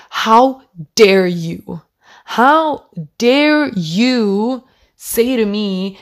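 slow, drawn-out indignation; indignant how dare you. Retold or imitated. To the boss who doubts her period pains, slow outraged reproach. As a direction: stretch every word in outrage.

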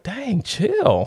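high, tossed-off dang, chill; cocky fifteen-year-old shrugging off his sister, pitched high; teen brush-off. Retold or imitated. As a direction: brush her off like a cocky teenager. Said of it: "So I'm like".

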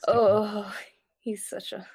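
breathy whisper. Real, not acted. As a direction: whisper it under your breath. Whispering about the character.

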